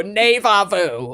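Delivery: NEVA said "nay-vah", slow. Shown as a demonstration. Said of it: "never vu, neva vu".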